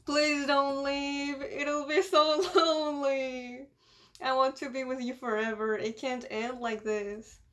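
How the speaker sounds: slow, drawn-out acted whine; a touch of weepy begging; tearful pleading. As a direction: plead slowly, as a crying child. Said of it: "ugly crying face".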